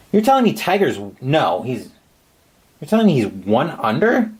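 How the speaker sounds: can't believe the total; surprised disbelief. Real, not acted.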